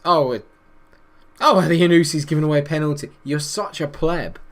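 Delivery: loud, fast, furious; angry outburst. Real, not acted. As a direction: blow up at the player. Penalty conceded, loud outburst.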